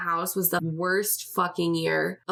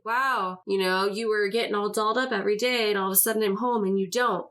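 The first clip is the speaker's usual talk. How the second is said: mock accusing ex; 4 semitones higher than usual. Ex accusing her over makeup.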